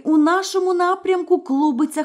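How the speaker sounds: put-on older sister calmly reporting. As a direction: answer simply from the tower.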